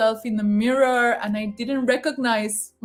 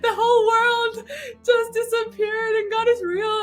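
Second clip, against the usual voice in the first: tearful awe; 11 semitones higher than usual. Real, not acted. Overwhelmed telling, crying laughter.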